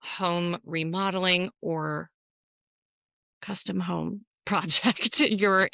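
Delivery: slowed, announcer-like blog voice; mock blog post read. Joking to her co-host, mimicking a blog post announcer. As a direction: read it like a headline pitch. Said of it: "I hear a blog post coming".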